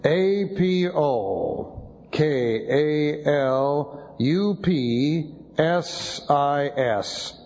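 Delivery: "A P O K A L U P S I S" spelled letter by letter, very slow; spelling out letters. Shown as a demonstration. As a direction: dictate each letter of "A P O K A L U P S I S" slowly to the class. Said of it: "This is".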